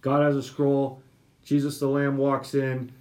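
usual speaking voice

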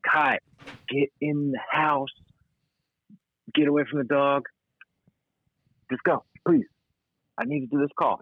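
put-on firm with the kid, sternly; dad voice. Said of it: "I get my dad voice on".

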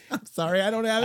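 high-pitched, laughing mock apology; retold apology. Retelling the reply to a boss wanting an accent, mock-apologetic.

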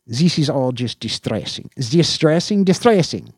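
high repeated fretting; mumbled fretting. Acted. Chief fretting to himself after the call, mumbling. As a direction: mull it over aloud. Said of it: "he mumbled".

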